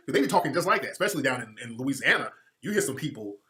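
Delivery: ordinary talk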